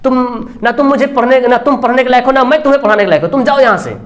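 angry teacher roaring. Retold or imitated. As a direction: bark the teacher out of the room, in retelling. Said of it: "master साहब तो एकदम गरज रहे थे". (गुस्से में गरजते मौलवी की नकल)

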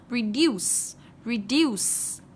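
"Reduce" ending in a clear s. Shown as a demonstration. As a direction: finish "reduce" on a voiceless s. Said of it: "sẽ đọc là sờ".

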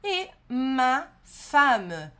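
very slow, careful French; slow model pronunciation. Shown as a demonstration. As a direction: lay each word out slowly for the learner. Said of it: "chegamos ao marido e esposa". (francês bem devagar)

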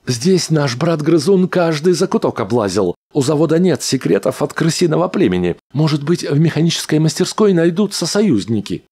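high, quick little rodent voice; a cheeky mechanical rat; squeaky rat voice. A narrator's reading. Rat character voiced by narrator.

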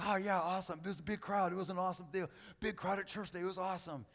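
high-pitched, breezy churchgoer chatter; mock enthusiasm. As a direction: imitate someone thrilled about a big turnout. Imitates churchgoers pleased by crowds.

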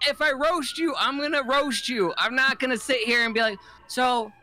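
lightly hammed-up taunt; a hint of a smug roaster; mock smug warning. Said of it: "retelling his warning to her".

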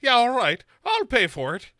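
high, loud mock breezy Sarah. The speaker mocking Sarah, high loud and breezy. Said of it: "And she's like".

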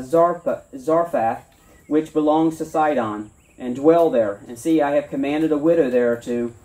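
steady, measured Bible reading to a congregation; sermon scripture reading. Acted. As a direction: read the passage like a preacher at the pulpit. Reads scripture aloud.

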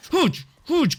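high, loud call to come on; shouted taunt. Real, not acted. Gamer calling an attacker closer, high shouted dare. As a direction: yell it high at an enemy.

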